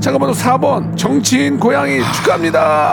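shouted winner announcement; announcer shout. Acted.

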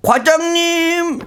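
put-on slow, high little kid voice; childish voice. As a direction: talk like a small child. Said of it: "갑자기 아이가 돼버렸어".

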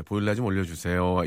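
low, dull, deadpan read; lifeless reading. Shown as a demonstration. Host shows how to ruin a listener's message, low lifeless read. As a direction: kill the line with no expression. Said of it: "사연을 죽이는 겁니다".

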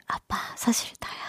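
hushed, voiceless confession; secret whisper. Pretend. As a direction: whisper it so nobody else catches it. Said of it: "몰래". (몰래 속삭이듯 고백)

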